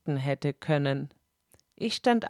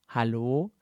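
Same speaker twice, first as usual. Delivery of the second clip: Regisseur; 7 semitones lower than usual. Acted. Regisseur ruft von draußen.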